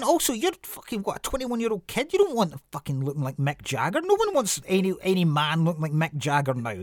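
put-on exasperated rant at a young guy copying a rock singer; mock exasperated rant. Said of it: "And you're like going".

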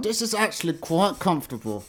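lightly voiced, pleased wolf; smug wolf voice. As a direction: preen in the nightgown. Wilk zachwyca się koszulą nocną.

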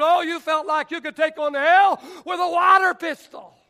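loud, rising preacher's cadence; fiery preaching. Acted. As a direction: preach it with full force. Preaching at full force.

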